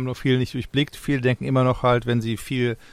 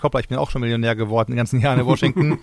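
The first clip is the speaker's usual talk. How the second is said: mock politician realizing; 4 dB louder, much faster than usual. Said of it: "hat Bernie Sanders gemerkt".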